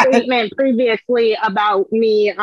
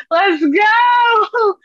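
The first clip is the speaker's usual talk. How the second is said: hyped shout; 10 semitones higher than usual. Real, not acted. Kicking off the next segment with a high hyped shout. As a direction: fire everyone up.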